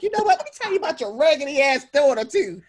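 loud, high-pitched mock tirade; blackout mad. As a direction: rant furiously, punching out the indignant questions. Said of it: "blackout mad".

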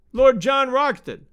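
high, loud, drawn-out summons; shout. A narrator's reading. Enemy hailing Lord Roxton across the abyss, drawn-out shout. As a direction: call the full name slowly and loudly. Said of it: "he shouted".

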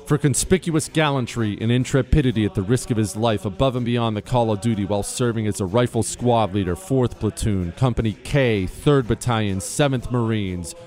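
formal, measured citation reading over music; crisp military citation. Acted. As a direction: read it like an official military honor. Reads a Medal of Honor citation.

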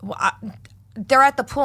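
high-pitched, hesitant kid impression; imitating terrified boy. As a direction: play a boy scared of an angry mother. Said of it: "visibly fucking terrified of me".

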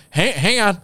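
imitated husband stalling on the phone; hammed-up hesitant fumbling, long gaps; dragged-out stalling. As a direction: play up the halting fake search. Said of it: "I didn't drag it out that much".

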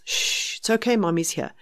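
breathy shush, then a soft reassurance; soothing hush. Retold or imitated. Mother reassuring a crying baby in bed, soft and soothing. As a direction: settle the baby with your voice. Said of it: "So that's what this is".

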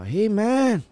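put-on high, drawn-out Hispanic-accented call. Passerby hails the storyteller about the pig, mock Hispanic accent. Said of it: "Is that your Hispanic accent?".

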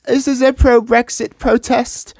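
a hint of a prim old woman explaining; old lady voice. Old lady answers his question.

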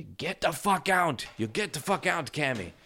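high-pitched shooing of a cat; scolding the cat. Real, not acted.

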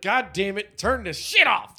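hammed-up cry to kill the video; mock angry outburst. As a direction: play a viewer shouting at the screen. Viewer reacting to a Speedo.

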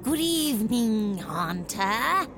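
slow, lightly voiced vampire. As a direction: greet it like a courtly vampire. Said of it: "like, a vampire voice".

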